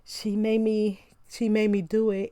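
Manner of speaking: half-hearted pretend weeping, words stretched; mock crying. Reviewer mimicking husband blaming her for what he did, mock crying. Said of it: "then he's crying and he's talking about".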